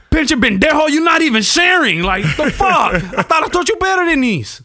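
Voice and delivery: high, loud angry Mexican dad. Retold or imitated. Dad furious that his son didn't share, high loud yelling. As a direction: yell at him up high. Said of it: "Pops got mad".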